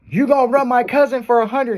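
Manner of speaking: high-pitched acted street-race challenge; Hector. Car club guy dares storyteller to race, imitated challenge. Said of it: "Here comes Hector".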